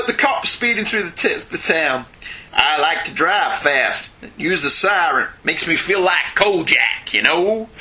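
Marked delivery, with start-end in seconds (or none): 2.5-7.7 slow, attempted New York accent; a stab at a New York cop accent; failed New York accent. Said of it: "Oh, that was not a New York accent".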